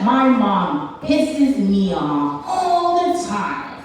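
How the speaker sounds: lightly voiced friend, stretching the key words; white schoolfriend impression. White friend boasts about defying mom, lightly mimicked drawl. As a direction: imitate a defiant friend with drawn-out emphasis. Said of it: "I had a little white friend".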